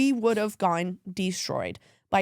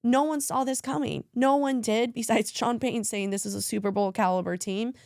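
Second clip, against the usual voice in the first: tearful. Real, not acted. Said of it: "Oh, there she goes".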